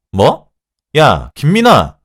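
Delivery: loud, high, drawn-out yell; outraged shout. A narrator's reading. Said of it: "라고 소리를 질렀죠". (버럭 소리를 지르며)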